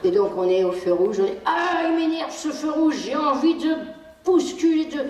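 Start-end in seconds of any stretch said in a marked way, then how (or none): 1.4-5.1 a higher, lightly exasperated voice at the red light; mock annoyance. Shown as a demonstration. Parent at the red light showing the child, mildly mock annoyed. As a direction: act a touch fed up, for the child to hear. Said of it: "on dit à haute voix ce que nous faisons".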